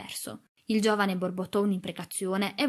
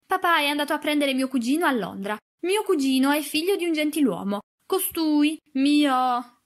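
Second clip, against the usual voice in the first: high, loud upset insistence breaking off; distraught protest; 6 semitones higher, 5 dB louder than usual. A narrator's reading. Girl denying her lowly cousin, near tears, distraught. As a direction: protest ever more upset, then stop short. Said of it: "si interruppe e cominciò a piangere a dirotto".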